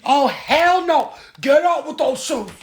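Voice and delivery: slow, loud, high protest; loud scolding. Real, not acted. Mom telling son to take shoes off bed, loud scolding. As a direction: stop him at once.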